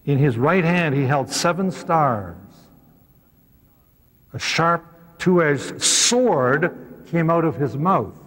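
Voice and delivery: slow, weighty reading of scripture; measured, reverent Bible reading; solemn scripture reading. Acted. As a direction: read it slowly, like a vision unfolding.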